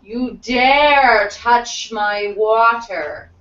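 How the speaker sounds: slow, drawn-out indignant yell; mild yell. Acted. Game master as the angry foe warning the player off his water, mildly yelled. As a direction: stretch each word out as an outraged challenge. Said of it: "And he yells".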